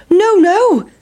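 a cheeky pancake dodging the pan; pancake's voice. Acted. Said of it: "said the big pancake".

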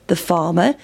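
plain reading voice

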